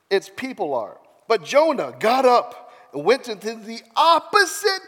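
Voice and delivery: animated Bible storytelling; lively, punched-up narration; dramatic scripture reading. A narrator's reading. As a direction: read the story out with emphatic key words. Reads scripture aloud dramatically.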